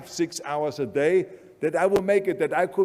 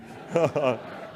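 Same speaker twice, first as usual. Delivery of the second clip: agent laughing at the dream; a brief derisive chuckle; scornful laugh. Retold or imitated. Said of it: "their reaction was".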